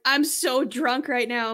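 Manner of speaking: slow, faintly imitated Hispanic accent. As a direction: drag it out in a weak Hispanic accent. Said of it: "Do you do the accent".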